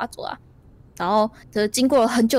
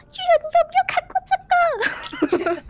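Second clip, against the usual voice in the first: much higher, slow, laughing call; slower than usual. Acted. Small traveler shouts up to the giant, laughing. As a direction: hail a giant way overhead, giggling.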